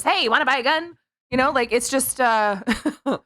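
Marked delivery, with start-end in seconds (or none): 0.0-1.0 a weird gangster-ish attempt at a Mexican accent; a failed Mexican accent, more like a gangster; bad Mexican accent. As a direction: hiss a gun sale from a car trunk in a botched Mexican accent. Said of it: "That's not a Mexican accent".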